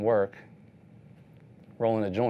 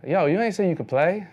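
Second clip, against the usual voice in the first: put-on higher, louder amazed kid, laughing; a kid who can't believe it, laughing through it; laughing stunned teen; surprised kid; 8 semitones higher, 6 dB louder than usual. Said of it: "the kid's looking at me like".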